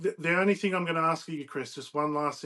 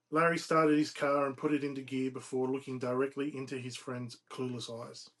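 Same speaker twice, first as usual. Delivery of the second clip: measured, emphatic read-aloud narration; storyteller reading from a novel; story narration. A narrator's reading. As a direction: read the tale out phrase by phrase. Reads novel excerpt aloud.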